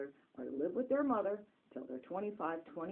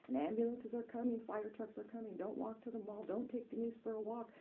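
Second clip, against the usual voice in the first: frantic warning; 5 semitones higher than usual. Retold or imitated. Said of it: "That's all he would say".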